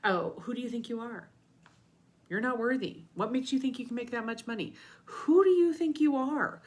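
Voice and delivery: mock the nasty ego taunting you; mean ego voice. Coach voicing the ego that keeps you small, sneering. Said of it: "the voice that says things like".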